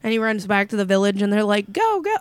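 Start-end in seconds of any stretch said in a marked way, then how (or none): 1.7-2.2 high hurried go; mock urgent urging. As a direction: hurry them along. Urging everyone away.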